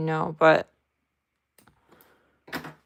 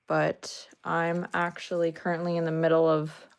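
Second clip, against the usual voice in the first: ordinary talk, nothing marked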